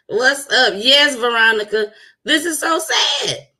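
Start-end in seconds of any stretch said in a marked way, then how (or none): 2.2-3.5 sad. Real, not acted. Mourning the shooting on stream.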